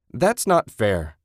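yelled. Acted. Susan protesting Ted's blame over the dog, yelling. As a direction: drag it out in protest. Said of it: "she yelled".

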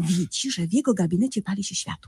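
hushed storyteller's whisper; breathless whisper building suspense. Retold or imitated. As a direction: whisper it like a secret. Suspenseful story told to friend.

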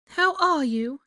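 high, loud character voice; high-pitched, gushing welcome; motherly greeting. A narrator's reading. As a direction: ask with eager motherly delight. Molly greets her son.

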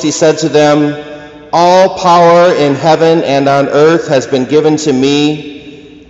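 solemn measured scripture reading; Gospel reading. Acted. Reads the Gospel aloud.

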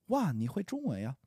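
at natural speaking speed; quickly. Shown as a demonstration. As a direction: say it the way a native would, no slowing. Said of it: "I'll say it slowly and then quickly".

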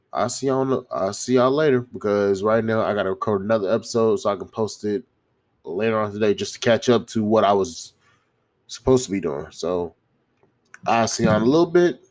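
congested, blocked nose; talking through a stuffy nose. Real, not acted. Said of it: "sorry if I sound like I'm congested".

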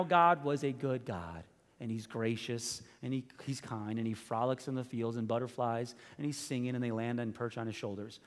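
lightly mock the idea of a sweet harmless God; mock gentle. Mocking the wrong view of God.

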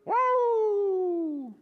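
very high, loud woo; delighted dog's yelp; excited dog. Retold or imitated. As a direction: howl it like a happy dog. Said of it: "And then Quincy goes".

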